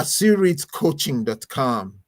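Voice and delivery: slow and loud, spelling out the web address; slow, clear spell-out. Real, not acted. Host gives listeners the coach's website, slow and loud. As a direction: read the address slowly so they can note it. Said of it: "I wanna make sure I give you".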